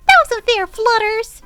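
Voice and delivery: high, loud protesting yell; indignant shout. A narrator's reading. Pinkie yelling her protest at Fluttershy, high and loud. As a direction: call out the unfairness loudly. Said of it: "she yelled back at Fluttershy".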